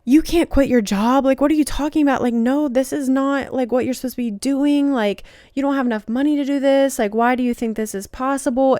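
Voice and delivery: lightly acted frantic inner voice; panicky ego voice. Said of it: "The ego starts freaking out".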